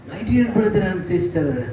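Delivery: slow, syrupy mock address; mock sweet greeting. Preacher mocks sermons that open sweetly, slow syrupy greeting. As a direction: drag it out like an overly nice preacher. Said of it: "అని పిలవట్లేదండి".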